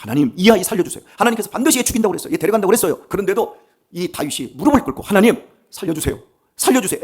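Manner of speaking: loud, high pleading prayer with a hint of tears; desperate weeping plea. David begging God to spare his son, loud acted plea. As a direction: beg God for the child's life, lightly acted. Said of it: "막 간절하게 울면서 먹지 않고 기도합니다".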